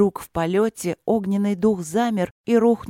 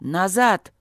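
growled command; 2 semitones higher than usual. Acted. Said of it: "рыкнул на всё крыло".

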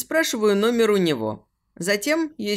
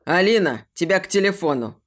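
calling out loudly across the flat; a gruff father's loud call; shouting; 3 semitones lower, 3 dB louder than usual. Acted. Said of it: "а затем крик".

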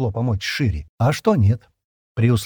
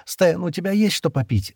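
Shira asking; 8 semitones higher than usual. A narrator's reading. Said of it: "спросила Шира".

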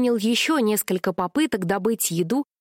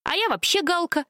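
high, sudden caw-like blurt; cawed confession; 8 semitones higher than usual. A narrator's reading. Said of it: "вдруг каркнул Галилей". (каркнув, высоко)

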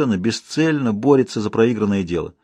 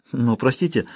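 plain reading voice

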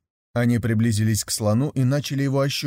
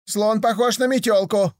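гораздо выше и громче; выкрикни в ночь; 10 semitones higher, 3 dB louder than usual. Acted. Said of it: "выкрикивали". (слепые ночью выкрикивают своё, крича)

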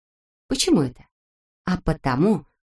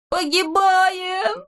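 very high, drawn-out wail; wailing cry; 13 semitones higher, much slower than usual. A narrator's reading. Neznaika panics as the balloon falls, very high slow wail. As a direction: howl it like a doomed little boy. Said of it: "завопил Незнайка".

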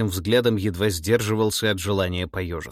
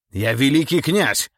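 loud, raised, drawn-out outrage; indignant exclamation; 6 semitones higher, 6 dB louder, slower than usual. A narrator's reading. Accused grand prince protests to the tsar, indignant cry. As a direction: assert your rank indignantly, slow and forceful. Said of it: "с возмущением воскликнул Долгоруков".

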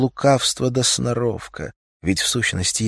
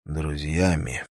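slow, low, thoughtful repeat; a man echoing her word, lost in thought; pensive echo; 4 semitones lower, 4 dB quieter, slower than usual. A narrator's reading. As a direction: mull the word over quietly. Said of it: "задумчиво повторил Литвинов".

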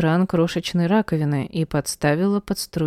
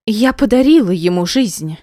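loud, fierce blurt; sudden outcry; 4 semitones higher, 5 dB louder than usual. A narrator's reading. Jealous wife cutting off her rival, shouting. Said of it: "вдруг выкрикнула она".

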